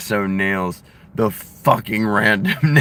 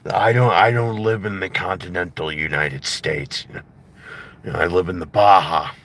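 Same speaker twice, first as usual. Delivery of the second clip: Jesse Ventura impression; 3 semitones lower than usual. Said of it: "I still love the".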